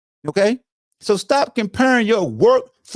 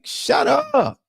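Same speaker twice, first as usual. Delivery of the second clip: drawn-out shut up; 10 semitones higher than usual. Real, not acted. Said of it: "repeats shut up, slower".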